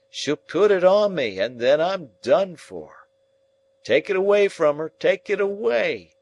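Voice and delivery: high, loud desperate pleading; panicked cry. Acted. Dying man pleading in terror to take the shroud away. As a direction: beg them to take it away. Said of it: "Next he cries".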